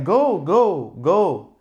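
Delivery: high, loud mock of a pushy driver; impatient driver. Other driver waving me on, mocked high and loud. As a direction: toss off the other driver's rushed go go. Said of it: "he's like".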